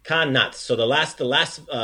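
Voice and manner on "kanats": Kanats ending in a clear "ts"; final TS sound. Shown as a demonstration. Teacher correcting the student's last sound, "ts" ending on Kanats. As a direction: close Kanats on "ts". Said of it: "sound is a T S sound".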